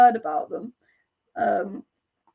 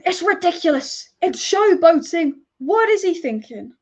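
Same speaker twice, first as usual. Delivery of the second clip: imitating an outraged pundit, higher and louder; slowed, scornful showboating rant; mock pundit outrage; 5 semitones higher, 4 dB louder than usual. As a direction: ham up the disgusted pundit. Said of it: "Paul Scholes said about the Antony skill".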